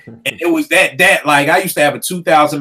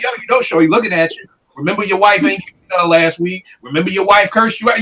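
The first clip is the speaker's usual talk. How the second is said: tempting devil; 4 semitones higher, faster than usual. Retold or imitated. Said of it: "it's gonna be like".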